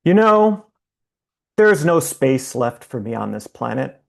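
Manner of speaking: emphatic line openings, long pauses between phrases; poetry reading. Acted. Poet reading a song-inspired poem to an online audience, poetry reading. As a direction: recite it line by line, leaving space after each.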